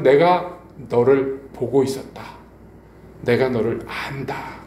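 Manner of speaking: slow, drawn-out words, lightly acted; lightly voiced Jesus. Jesus tells Peter he knows him, lightly voiced and slow. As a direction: stretch each word gently, as a retold divine reassurance. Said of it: "예수님이 나타나셔서".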